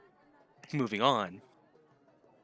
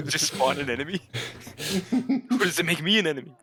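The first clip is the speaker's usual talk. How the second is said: laughing; 6 semitones higher, 6 dB louder, faster than usual. Real, not acted. Cracking up at the potions.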